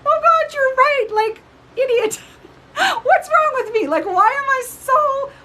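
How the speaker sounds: high, loud, laughing self-mockery; laughing at herself. Real, not acted. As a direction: laugh through the words at your own silliness. Laughing at her own foolishness.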